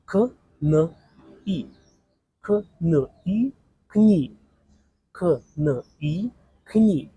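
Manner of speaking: kni built up with a sharp high punch; syllable blending. Shown as a demonstration. Teacher joining three letters into one syllable. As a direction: snap k, n, i together into kni. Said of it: "three letters in one syllable".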